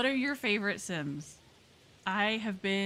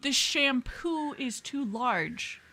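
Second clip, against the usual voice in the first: slow, louder mocking repeat; mock incredulous; 5 semitones higher, 5 dB louder, much slower than usual. Mocking a shopper's absurd shampoo request, incredulous. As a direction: spell out the absurdity. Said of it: "Can you?".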